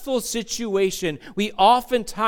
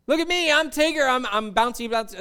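mock Tigger; 3 semitones higher than usual. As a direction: brag like a bouncing tiger, lightly. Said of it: "call Tigger the self-assured one".

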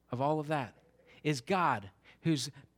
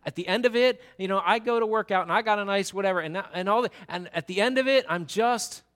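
rising frustrated rant, louder toward the end; frustrated young person; 4 semitones higher, 4 dB louder than usual. Retold or imitated. Preacher voicing a young listener's doubt, building frustrated rant. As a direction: let the questions build into an outburst. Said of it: "Maybe you felt".

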